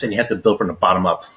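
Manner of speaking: talking with a mouth full of mooncake; words round a bite of cake. Real, not acted. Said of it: "I've still got mooncake in my mouth".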